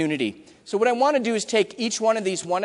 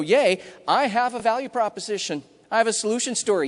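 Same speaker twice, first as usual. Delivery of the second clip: mock excited; 3 semitones higher than usual. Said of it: "start raising the roof and getting all excited".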